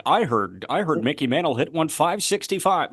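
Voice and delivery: lightly voiced 1940s radio announcer; a hint of a vintage ballgame broadcaster; old radio announcer. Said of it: "the nineteen forties radio announcer voice".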